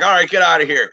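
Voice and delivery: said through a laugh; laughing cop. Retold or imitated. Cop letting the speeding dad go, laughing. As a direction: let the laugh break through the words. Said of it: "He's like".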